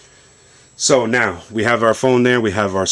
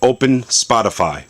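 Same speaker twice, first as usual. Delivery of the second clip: voice command; 4 semitones higher than usual. Real, not acted. Speaking command to phone.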